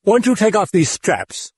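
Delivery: put-on high, coaxing British accent; wheedling British accent. Demon coaxes Karras in a British accent. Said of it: "wheedling voice in a clipped British accent".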